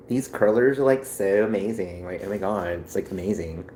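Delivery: lightly voiced Valley Girl; a hint of gushing Valley Girl, falling away. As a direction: toss it off as a casual Valley Girl. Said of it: "'Cause I do the Valley Girl voice".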